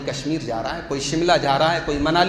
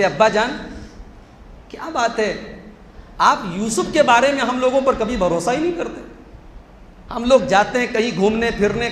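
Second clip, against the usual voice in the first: higher coaxing plea, rising; wheedling sons; 5 semitones higher than usual. Retold or imitated. The scheming sons coax their father, higher and wheedling. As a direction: sweet-talk the father slyly. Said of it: "बात करने का अंदाज देखिए".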